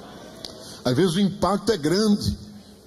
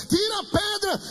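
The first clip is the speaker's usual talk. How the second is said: crying out; 12 semitones higher than usual. Retold or imitated. Dreamer begging God to remove the rock, crying out. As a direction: imitate a man calling desperately to God. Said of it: "ele começou a gritar".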